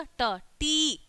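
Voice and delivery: ट, टी each with a hard retroflex T; ट, टी sounded out separately for learners; demonstrated pronunciation. Shown as a demonstration. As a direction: curl the tongue back for ट, then टी. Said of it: "टी ऐसे बोलते हैं".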